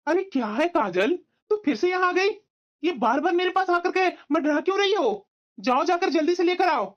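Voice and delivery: impatient, mildly annoyed scolding; fed-up husband's complaint; exasperated. Acted. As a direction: send them off irritably. Husband snaps at returning wife.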